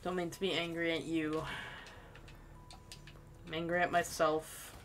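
soft, deflated apology; quietly sorry after an outburst; upset. Real, not acted. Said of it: "I'm just upset".

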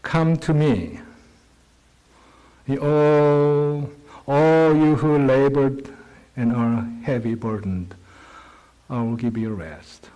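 scripture reading. Acted. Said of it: "It says".

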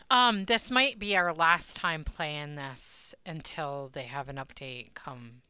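slow, sleepy yawning speech. Real, not acted. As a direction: talk through a yawn. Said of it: "I'm so yawny".

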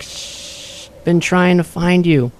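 high, muffled voice with static crackle. Acted. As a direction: speak like a crackly magic radio. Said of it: "small, muffled voice coming from Quincy's pocket".

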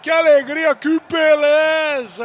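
high, sung-out joyful exclamations; goal celebration catchphrase. Acted. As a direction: stretch the last word slowly.

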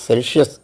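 Celsius with a sharp ts at the start; German Celsius. Shown as a demonstration. Teacher shows students Celsius with a ts sound. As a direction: say Celsius as tsel-zee-us. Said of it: "tse, Celsius".

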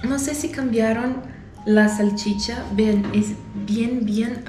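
through a scrunched face; pained after bad taste; speaking with a disgusted grimace. Real, not acted. Seen 2: No food in hand or mouth; scrunched disgusted face while talking.

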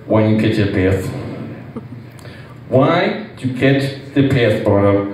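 mock coach yell. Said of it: "when he yelled at you".

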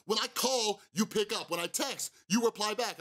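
ranting at the sponsor about answering calls; angry rant. Retold or imitated. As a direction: lay down the rules, heated. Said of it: "get so angry and go on this rant".

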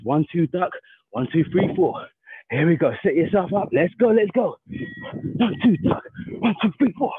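rhythmic combo count, punchy; boxing coach calling combos. Shown as a demonstration. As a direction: call each punch sharply. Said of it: "when you hear the bell".

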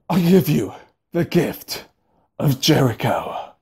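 slow, dramatic reveal; hammed-up gift announcement; grand presenter.

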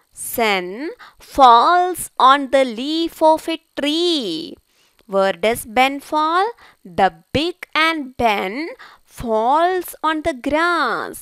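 slow, drawn-out storybook reading; slow read-aloud to children. Acted. Teacher reads the ant story to pupils, slow and deliberate. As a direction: read it very slowly for young learners.

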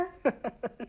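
short, quiet laugh; soft chuckle. Acted. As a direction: chuckle softly under the breath. Husband laughs at wife's question.

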